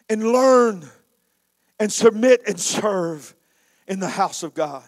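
from fervent to slow and hushed; softening vow. Acted. Vow fades to quiet resolve.

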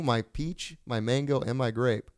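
seductive murmur. Acted. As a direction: purr it quietly and suggestively. Seductive beer description.

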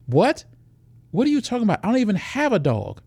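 high, indignant protest; shocked she'd be accused; woman to pushy stranger, high indignant disbelief; indignant surprise. Acted.

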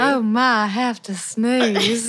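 slow Southern belle lilt; a little Southern belle, slow. Pretend. Holding in a sneeze, slow Southern belle voice. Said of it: "That's how I feel like talking".

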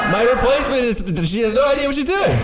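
high and fast through laughter; laughing complaint. Acted. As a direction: laugh while griping. Laughing complaint about replacement.

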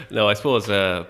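talking through a laugh. Real, not acted. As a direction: still laughing as he answers. Laughing after joke answer.

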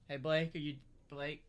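yelling across the shop; impatient calling. Retold or imitated.

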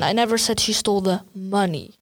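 "money" given the weight; stress on MONEY. Shown as a demonstration. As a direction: hit the word "money" at the end. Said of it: "she didn't steal money".

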